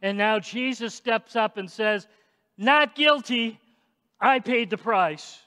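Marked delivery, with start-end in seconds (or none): 2.6-5.4 mild shout. Retold or imitated. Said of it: "Jesus does a little shouting himself".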